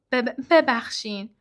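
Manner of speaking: slow, halting through sobs, stumbling on the first syllable; sobbing apology. Acted. Hagrid sobbing an apology to McGonagall, slow and halting. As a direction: choke the word out between sobs. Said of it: "هاگرید حق حق کنان گفت".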